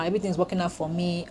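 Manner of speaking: quiet affirmation. Shown as a demonstration. Vlogger repeating her mantra to herself, quietly. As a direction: say it quickly under your breath. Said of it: "That's my mindset right now".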